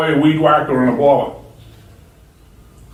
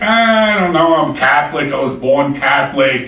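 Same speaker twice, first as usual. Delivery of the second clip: hesitant objection; 4 semitones higher than usual. Retold or imitated. Friend invited to church, balking high and hesitant. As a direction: push back, unsure and pitched up.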